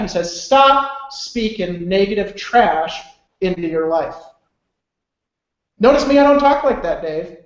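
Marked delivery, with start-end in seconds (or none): 0.4-4.1 slow, emphatic mock scolding; retold stern order. Mentor cutting off his self-pity, slow and stern. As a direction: lay down the order slowly, word by word.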